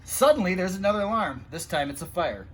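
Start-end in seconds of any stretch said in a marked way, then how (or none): 0.0-0.6 dramatic suddenly. A narrator's reading. New alarm sounds.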